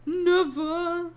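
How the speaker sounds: "Never" called out loud and high; emphatic never. Pretend. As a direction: belt out "Never" like a rally cry.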